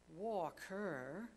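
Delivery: a lightly voiced boy, startled; a street boy blurting in disbelief; exclaiming boy. Boy answering Scrooge from the street, lightly voiced exclaim. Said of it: "exclaimed the boy".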